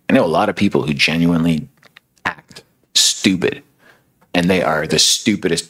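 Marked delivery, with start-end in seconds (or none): 2.2-3.6 slow, higher put-on dumb voice; lightly mocked dimwit; mock dumb act. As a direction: drag it out like playing dumb. Mocking people who play dumb.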